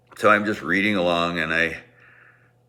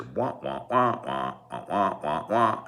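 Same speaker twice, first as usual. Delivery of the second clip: Charlie Brown adult wah; 4 dB quieter than usual. Retold or imitated. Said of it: "I'm Charlie Brown in a Charlie Brown movie".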